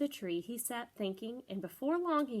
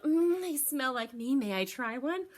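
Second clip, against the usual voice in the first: sweet, coaxing skunk; lightly voiced hopeful skunk; Miss Skunk voice; 2 semitones higher, 4 dB louder than usual. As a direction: ask for a taste nicely. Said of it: "Miss Skunk smiled".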